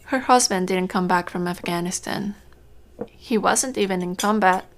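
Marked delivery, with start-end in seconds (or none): none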